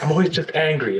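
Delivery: lightly mimicked high, frustrated whine; a hint of Rob's put-on frustrated squeak; frustrated high-pitched voice. Colleague lightly imitating Rob's frustrated high-pitched voice. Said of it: "his frustrated, high-pitched voice".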